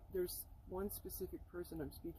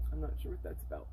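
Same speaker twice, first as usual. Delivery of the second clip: ordinary talk, nothing marked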